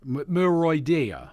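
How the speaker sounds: "Muroidea" sounded out slowly, ending DEE-uh; careful pronunciation attempt. Shown as a demonstration. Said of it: "I think that's how it's pronounced".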